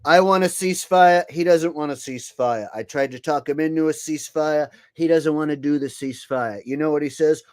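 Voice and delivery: a hint of a boastful Trump; Trump impression. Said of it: "enough Trump".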